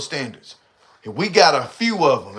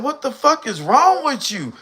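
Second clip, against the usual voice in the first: quoting her; 10 semitones higher than usual. Retold or imitated. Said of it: "She said".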